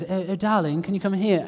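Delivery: lightly put-on posh voice, sweetly calling; a hint of a plummy wife calling her husband; mock posh wife. Imitating his wife calling him in, posh. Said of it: "And real posh and goes".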